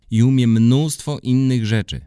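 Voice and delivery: put-on boy boasting to friends; excited boast. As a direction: burst out with pride. Boasting about the dog.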